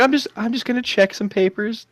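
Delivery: lightly voiced smug officer; a hint of a smug agent; mock cop voice.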